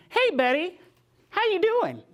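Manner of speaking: high, bright call from the car window; cheery greeting. Retold or imitated. Daughter calling out cheerfully to her mother on the street. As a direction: sing out a friendly hello to her mother.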